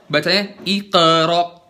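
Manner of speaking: "iqra" dengan qaf tebal dan pantulan. Shown as a demonstration. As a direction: ucapkan "iqra" dengan lidah belakang terangkat. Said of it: "kalau misalnya iqra". ("iqra" dengan qaf tebal)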